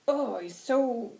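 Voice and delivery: slow, loud, emphatic indignation; passionate anger. Acted. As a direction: stretch the words out heatedly. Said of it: "he's just very passionate about it".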